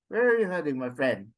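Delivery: demonstrated English question tune; question intonation. Shown as a demonstration. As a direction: lift "Where are you heading", drop "friend". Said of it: "it goes up".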